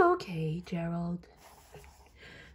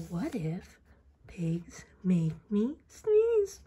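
fearful whisper; 5 semitones lower than usual. Acted. Gerald fears allergy.

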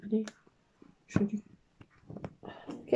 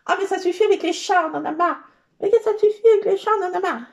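louder, higher fed-up outburst; mock exasperation; 5 semitones higher, 8 dB louder, faster than usual. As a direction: complain loudly as if you've had enough. Mock outburst against the cats. (exaspération jouée, voix forte)

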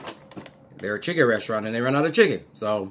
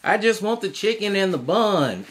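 imitating a coworker; 9 semitones higher, 5 dB louder than usual. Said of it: "one of her coworkers was like".

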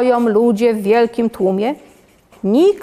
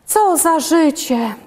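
drawn-out sigh of complaint, higher; slow, higher-pitched lament; 5 semitones higher than usual. A narrator's reading. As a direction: sigh it out slowly. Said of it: "wzdychając".

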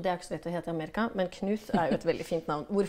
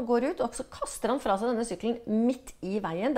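ordinary delivery

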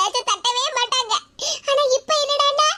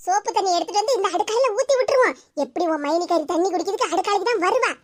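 scheming; 6 semitones lower than usual. Acted. Plotting the soap-water trap.

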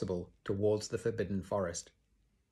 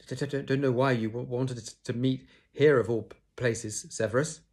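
nervous stammer, pitched up; stuttering Quirrell; 4 semitones higher, 4 dB louder than usual. Acted. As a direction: stammer it out in a panic. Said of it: "he was stuttering worse than ever".

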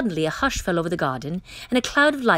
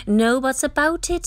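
higher, louder kingly shout; 7 semitones higher, 4 dB louder than usual. Acted. King overruling the Grand Duke with a loud shout. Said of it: "shouted the king".

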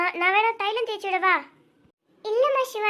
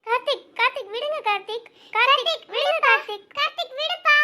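desperate pleading; 6 semitones higher than usual. Acted. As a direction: beg him to let go, getting higher. Pleading as Karthik drags her.

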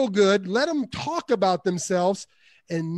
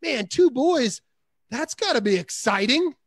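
with feeling; 3 semitones higher than usual. Shown as a demonstration. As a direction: lean into the excitement for him. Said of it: "when you can do it with feeling".

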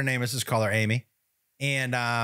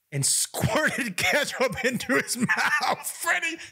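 slow, higher, breaking into laughter; laughing through it; 8 semitones higher, much slower than usual. Real, not acted. Telling the co-host about the ketchup dancer, laughing. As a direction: let the laugh take the words.

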